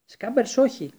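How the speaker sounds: high, loud alarmed cry. A narrator's reading. Ron cries out as his rat escapes, loud and alarmed. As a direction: shout NO in alarm, pitch leaping up.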